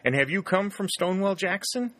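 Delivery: hanging on the answer, thrilled; eager rushed asking; breathless eagerness. A narrator's reading. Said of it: "breathless with eagerness".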